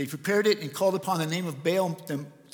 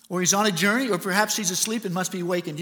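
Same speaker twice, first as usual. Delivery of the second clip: mocking taunt. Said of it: "You see the taunting".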